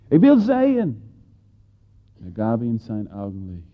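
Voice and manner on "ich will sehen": high, loud eager plea; beggar's plea. Acted. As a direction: burst out with longing. Blind beggar answers Jesus.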